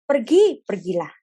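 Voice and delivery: sharp loud first word, then drops back; a firm divine command. Acted. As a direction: call out the order to go. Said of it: "itu selalu lech lecha".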